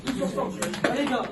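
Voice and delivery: high, urgent rallying cry; rally the squad before kickoff; barking gym coach. Real, not acted. Coach rallying team before match.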